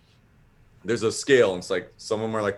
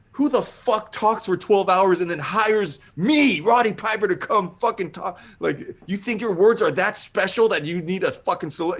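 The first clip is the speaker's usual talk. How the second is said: high, strained wrestler rant, louder; Roddy Piper; 9 semitones higher, 3 dB louder than usual. Retold or imitated. Hired wrestler going in on the man paying him, outraged tirade. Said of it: "he's just going in on me".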